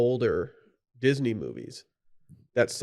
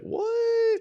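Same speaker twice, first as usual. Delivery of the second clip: squeaky, very high "what?"; a sudden high-pitched shriek of disbelief; shocked "what". Pretend. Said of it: "They'd be like".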